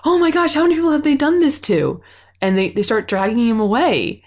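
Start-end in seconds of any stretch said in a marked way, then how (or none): 0.1-2.0 higher, aghast mock horror; shocked. Recapping the episode, host voices her own shocked reaction higher. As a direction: gasp it out in disbelief.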